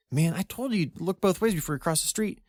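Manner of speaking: put-on teen boy. A narrator's reading. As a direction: scold a friend like an exasperated teenager. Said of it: "that of a teen boy".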